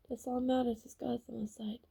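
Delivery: hushed whisper to herself. Real, not acted. Vlogger whispering her faith to herself in a hushed voice. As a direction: breathe it out almost silently. Emotional vlog, repeating faith line.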